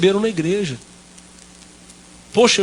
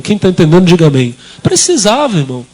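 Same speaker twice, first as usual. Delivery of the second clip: preaching shout; 5 dB louder than usual. Real, not acted. Preacher calls on congregation.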